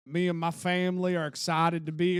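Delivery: a light put-on Southern twang; lightly imitating a coach's new Southern accent; mock Southern accent. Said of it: "you didn't have to do the accent".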